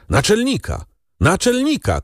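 high-pitched mild cry for help; desperate cry. A narrator's reading. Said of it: "krzyknął". (rozpaczliwy, wysoki okrzyk)

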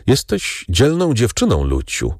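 mildly approving praise. A narrator's reading. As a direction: praise her with understated admiration. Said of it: "rzekł z uznaniem".

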